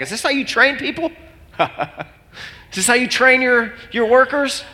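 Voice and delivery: high, exasperated complaint to God; frustrated venting. Retold or imitated. Pastor in soccer field venting to God, exasperated and high. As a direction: vent at God in disbelief.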